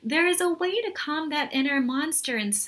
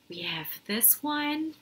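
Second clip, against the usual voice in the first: whisper; 6 dB quieter than usual. Acted. Showing kids monster pictures.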